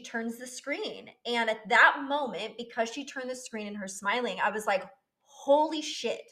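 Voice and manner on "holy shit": stunned exclamation. Retold or imitated. Sees heartbeat on screen.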